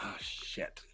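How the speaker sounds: breathy whispered curse, almost silent. Real, not acted. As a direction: breathe "Oh, shit" under the breath. Reacts, embarrassed, to a remark.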